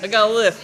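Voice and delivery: "I got a list" with a lisped th on list. Retold or imitated. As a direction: lisp the word "list" like "lif". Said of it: "He's like".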